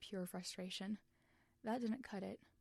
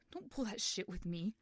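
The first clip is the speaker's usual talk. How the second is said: warning; 4 dB louder than usual. Acted. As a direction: warn him off hard. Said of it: "Wilbur warned".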